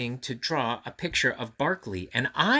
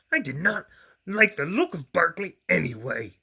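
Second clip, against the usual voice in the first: higher, pouting monster voice; sulky Grover; 5 semitones higher, 4 dB louder than usual. A narrator's reading. Grover tearing up his drawing, sulky. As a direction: sulk as Grover.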